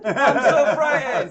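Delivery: slow, high, loud fake fear; hammed-up helpless terror, half laughing; mock fright. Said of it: "look at a green screen and go".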